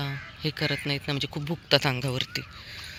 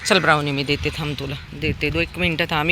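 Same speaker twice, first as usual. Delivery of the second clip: normal talking voice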